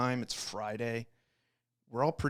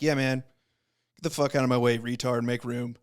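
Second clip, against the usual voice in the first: louder retold bark at him to move; aggressive bark; 8 dB louder than usual. Rival ordering him out of the doorway, loud bark. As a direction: shove him aside with your voice.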